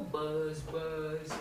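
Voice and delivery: low steady buzz; bee buzzing. Pretend. Reader shows the children a bee, steady buzzing. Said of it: "He can sound like a bee".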